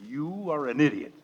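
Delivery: mock-serene insult, barely lifted; calm and composed. Father tells the boss off with pretend calm. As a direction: say it with exaggerated composure. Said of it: "very calmly and with absolute composure".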